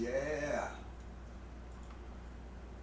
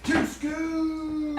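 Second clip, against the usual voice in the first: excited call; 5 dB louder than usual. Real, not acted. Greeting guest by catchphrase.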